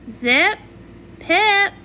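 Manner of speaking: calling their names sharply; snapping their names to stop them. Acted. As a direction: call them to order. Calling two ponies sharply.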